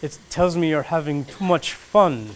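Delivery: slow, lightly imitated Italian chef; half-hearted Italian accent, drawn out; bad Italian accent. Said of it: "I don't do a very good Italian accent".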